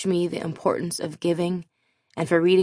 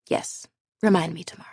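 quick deadpan whisper; whispered aside; faster than usual. Pretend. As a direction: toss it off under your breath, fast. Mock reply to computer update prompt.

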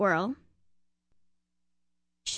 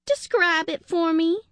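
brisk detective chick; 8 semitones higher, 4 dB louder than usual. Acted. Sugar voiced as a character.

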